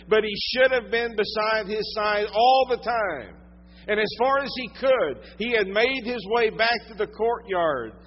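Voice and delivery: loud, slow, driving sermon delivery; preaching at full force. Acted. Preacher telling the congregation of Peter's denial, full-force preaching. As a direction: pour it out from the pulpit.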